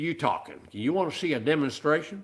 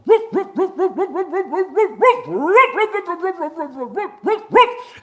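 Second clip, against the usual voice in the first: long run of high loud barks; yapping dog, high and loud; dog barking; 10 dB louder than usual. Acted. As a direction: bark on and on like a frantic dog. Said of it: "He's going".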